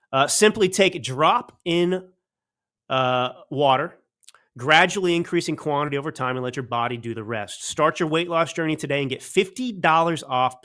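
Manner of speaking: upbeat host-read ad spot; sponsor ad read. Acted. Podcast host reading a weight-loss sponsor ad, ad read. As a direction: sell the product straight to the viewers.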